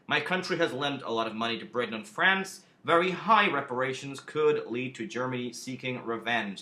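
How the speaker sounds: put-on a mild, clumsy American accent as Wilson; lightly put-on American accent for Wilson; understated mock American accent; bad American accent. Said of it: "apologies for the awful American accent".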